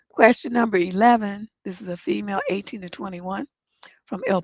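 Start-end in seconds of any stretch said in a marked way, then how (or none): none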